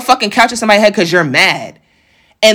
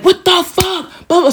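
much higher-pitched disbelief; re-enacted outraged shock; 9 semitones higher than usual. Her finding herself bleeding on the floor, re-enacted outraged shock. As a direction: act out stunned outrage.

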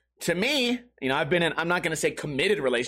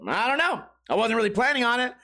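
lightly imitating a buddy, pitched up; a hint of a friend's voice, higher; 4 semitones higher than usual. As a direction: quote your buddy in a slightly raised voice. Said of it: "if you can picture his voice".

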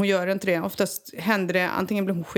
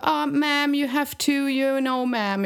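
mocking phone operator; 7 semitones higher, slower than usual. Mocking English-speaking dispatcher.

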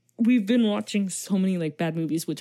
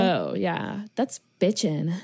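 put-on Valley Girl voice; slower than usual. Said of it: "if you say it like a Valley Girl".

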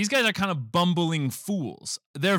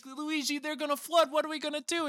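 mock panic; 12 semitones higher, 6 dB quieter, faster than usual. Retelling Daisy's panic.

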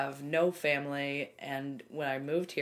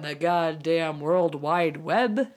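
laughing; 7 dB louder, slower than usual. Real, not acted. Mock dramatic emphasis.

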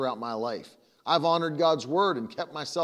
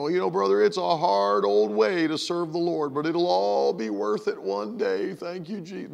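mock long-suffering believer; 3 semitones higher than usual. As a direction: parody an old churchgoer bearing a hard life. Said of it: "that's how people think".

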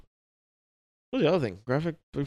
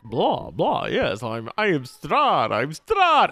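Dracula voice; 3 dB louder, much slower than usual. Retold or imitated. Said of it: "the Dracula".

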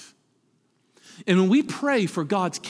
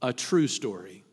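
calmly; 5 semitones lower than usual. Retold or imitated. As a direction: answer with calm, steady certainty. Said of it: "she very calmly looked at him and said".

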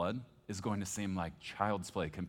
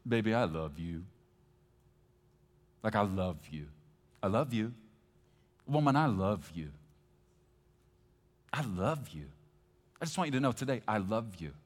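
a husband saying it again and again, a bit louder; repetitive husband; 7 dB louder than usual. Acted. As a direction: drone the same line to your wife, mildly mocking. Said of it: "if all I ever said to her was".

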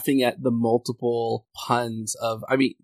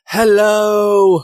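1 silly high hello; 10 semitones higher, 9 dB louder than usual. Acted. Craig greets in put-on voice.

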